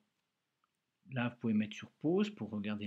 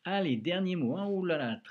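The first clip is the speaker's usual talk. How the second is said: playful alarm; 5 semitones higher, 6 dB louder than usual. Shown as a demonstration. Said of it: "très difficile ce mot".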